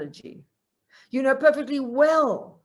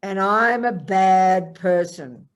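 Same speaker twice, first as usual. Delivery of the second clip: self-condemning; 6 dB louder, much slower than usual. Retold or imitated. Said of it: "But then you go".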